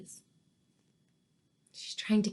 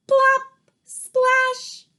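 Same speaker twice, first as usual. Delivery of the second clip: high, loud splashy exclamations; sound words; 8 dB louder than usual. A narrator's reading. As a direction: punch out each sound effect, high and loud. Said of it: "there's some onomatopoeia words, sound words".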